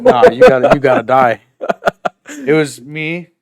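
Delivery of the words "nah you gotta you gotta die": mock threat. Mock threat over stolen food.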